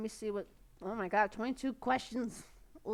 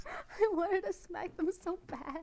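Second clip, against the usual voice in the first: mock outrage; 9 semitones higher, slower than usual. Real, not acted. Outraged at troll comment.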